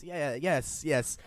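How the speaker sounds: awkward. Acted. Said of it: "feeling very awkward".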